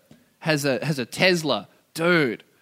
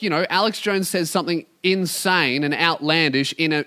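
ordinary talk

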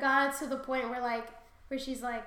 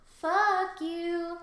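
mock-angry curse; 4 semitones higher, 5 dB louder than usual. Acted curse, escalating repeat.

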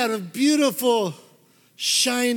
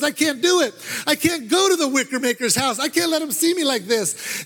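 panicky refusal; 4 semitones higher than usual. Acted. Boy panics at maker's door.

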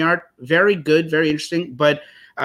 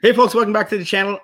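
high, loud, fast show opener; podcast host intro; 6 semitones higher, 4 dB louder, faster than usual. Acted. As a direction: burst in like a radio host. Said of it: "count me down, Paul".

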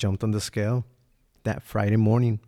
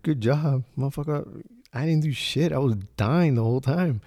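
mock retort; 5 semitones higher than usual. Mocking retort to praise.

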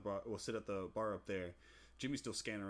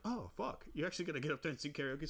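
shocked disbelief; 6 semitones higher than usual. Retold or imitated. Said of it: "So we're like".

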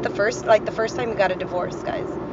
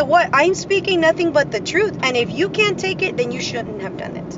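defiant retort; 6 semitones higher than usual. Retold or imitated. Retold defiant answer to ex.

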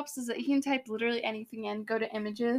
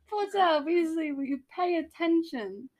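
slightly raised British scolding; British accent; 4 semitones higher than usual. Shown as a demonstration. Teacher scolding Potter and Weasley, British accent. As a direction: read it in an attempted British accent. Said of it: "trying to do a British accent".

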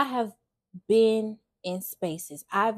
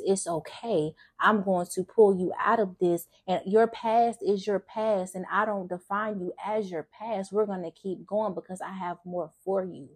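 reassuring. Pretend. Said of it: "But God says".

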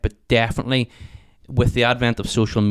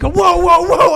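retold panicked whoa; 10 dB louder, much slower than usual. Startled while being chased.

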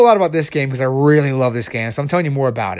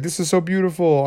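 higher-pitched gushing artist; freaking out; 4 semitones higher than usual. Acted. Crazed artist admires finished artwork, freaking out. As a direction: gush as if overcome. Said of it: "he's, like, freaking out".

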